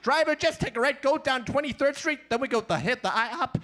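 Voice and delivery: high, excited fast-talking donkey; pushy sidekick nagging the driver, excited and high. Retold or imitated. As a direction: chatter eagerly like a cartoon donkey. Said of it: "Shrek and Donkey".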